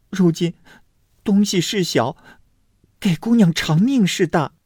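high-pitched maid's retort. A narrator's reading. Maid answering the accusing mother, high-pitched retort. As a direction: argue back in a high voice.

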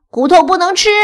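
high, loud dog protest; loud, high doggy objection; barking dog. Acted. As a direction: bark out the complaint. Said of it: "小布汪汪叫道".

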